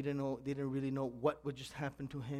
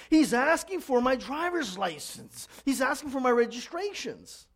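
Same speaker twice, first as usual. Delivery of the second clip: high, drawn-out acted explaining; exasperated raised voice; raised-voice repeating; 8 semitones higher, 7 dB louder, slower than usual. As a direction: spell it out loudly for a wife who can't hear. Husband repeats loudly for yelling wife.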